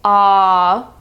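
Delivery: open-mouthed "Aw"; aw sound demo. Shown as a demonstration. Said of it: "sounding like an A W".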